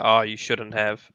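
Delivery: understated, toneless gift thanks; deadpan gratitude, barely any reaction; unimpressed-sounding thanks. Shown as a demonstration. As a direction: thank them as if you didn't like the gift. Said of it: "like, I didn't like the gift".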